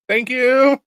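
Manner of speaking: high embarrassed thank you; bleeding guest thanking the knife maker, high and sheepish. Retold or imitated. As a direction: squeak out thanks while bleeding. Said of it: "And I was like".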